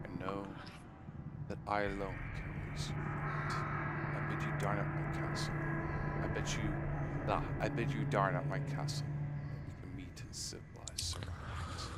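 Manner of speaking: a lightly voiced count reading his invitation; villain's letter. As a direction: read it like a gracious, menacing host. Reads villain's letter aloud.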